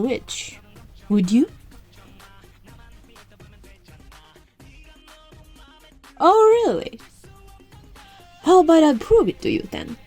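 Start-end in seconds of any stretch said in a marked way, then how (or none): 6.2-10.0 high-pitched, indignant comeback; provoked and ready to prove it; challenging. Acted. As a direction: rise to the doubter's challenge. Witch challenged by a doubter.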